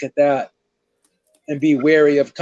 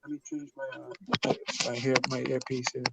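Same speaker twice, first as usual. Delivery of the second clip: muffled, distant earpiece sound; muffled and far from the mic; 3 semitones lower, 8 dB quieter, faster than usual. Real, not acted. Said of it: "you sound muffled now".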